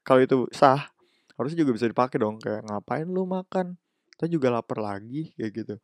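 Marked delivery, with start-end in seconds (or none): 2.7-5.3 high, slow mocking voice mimicking a lazy excuse; mocking quote. Speaker mocks someone's lazy excuse about eating, high and slow. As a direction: sneer it out like a silly know-it-all.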